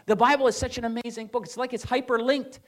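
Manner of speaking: a touch of amazed professor; imitating Jordan Peterson. Pastor retells Peterson praising the Bible, mild excited mimicry. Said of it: "that's how he talks".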